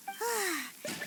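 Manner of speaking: soft falling sigh. Acted. Relieved after finding the box.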